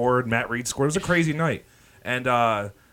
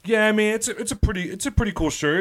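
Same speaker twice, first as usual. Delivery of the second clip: mock nerdy guy; 10 semitones higher than usual. Mocking the nerdy guy's reply.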